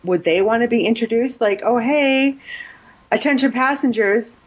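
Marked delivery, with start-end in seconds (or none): 1.6-4.4 higher, hammy intercom announcer; pilot announcement voice. Retold or imitated. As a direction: announce it like a cheesy airline pilot.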